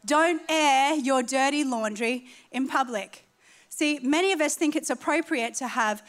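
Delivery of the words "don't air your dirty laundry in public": slower restatement. Shown as a demonstration. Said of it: "There it is".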